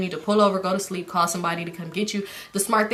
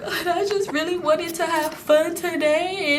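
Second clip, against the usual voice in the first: high, slow, whiny imitation of crying; mock crying; 9 semitones higher, slower than usual. Retelling the drunk girl's tears over her ruined day, mock crying. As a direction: wail it slowly in a mocking high voice. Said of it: "so she cried. She was like".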